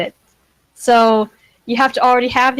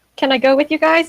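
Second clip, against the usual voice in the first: put-on high, eager little kid voice; 5 semitones higher than usual. Asking to come along in character: small eager child voice. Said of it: "in the voice of a small child, eager to follow".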